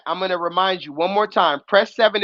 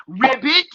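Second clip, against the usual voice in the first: frog croak imitation; 2 semitones higher than usual. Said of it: "What does the frog say?".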